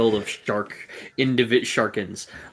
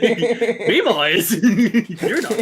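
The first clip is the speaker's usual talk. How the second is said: higher, louder, hammed-up pirate; mock pirate; 10 semitones higher, 6 dB louder, slower than usual. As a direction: ham it up like a jolly pirate captain.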